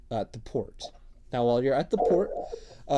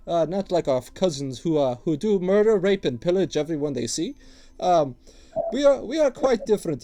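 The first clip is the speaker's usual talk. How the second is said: higher, louder wheedling dwarf voice; gruff dwarf tattooist; 6 semitones higher, 8 dB louder than usual. Acted. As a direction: sell your wares like an eager old dwarf. Dwarf keeps talking.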